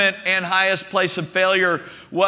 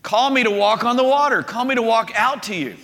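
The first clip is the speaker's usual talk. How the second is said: raised, higher voice, calling across the water; 4 semitones higher than usual. Retold or imitated. Peter calls to Jesus from the boat, calling out. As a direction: call out as Peter, mildly projected. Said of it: "And so he calls out".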